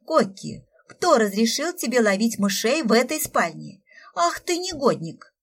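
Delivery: sharp, loud scolding of a naughty pet; angry scolding. Acted. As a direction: scold him like a caught thief. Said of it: "зло сощурилась".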